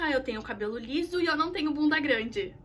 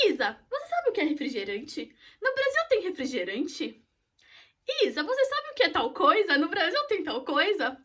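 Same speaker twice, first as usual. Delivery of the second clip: put-on little boy's questions; 3 semitones higher than usual. Five-year-old asking the au pair about Brazil, curious child. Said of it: "ele virava pra mim direto e perguntava".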